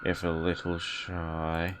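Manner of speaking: a hint of a slow, creepy old nun; lightly voiced old woman, slow and eerie. Reads the nun's dialogue aloud.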